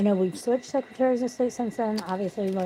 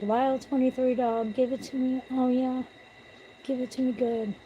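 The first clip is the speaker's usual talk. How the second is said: hammed-up lustful call, higher pitched; mock sexy shouting; 5 semitones higher than usual. Teasing a friend about his name, mock sexy cry. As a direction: play at moaning a gamer tag in bed. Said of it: "I was screaming out your name".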